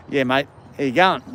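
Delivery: lightly put-on Aussie mate greeting; full-on Australian accent. Shown as a demonstration. Streamer showing chat his Australian accent, a mild full-on attempt. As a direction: lay on the Australian accent a little. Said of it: "I can put on the full, full-on Australian accent".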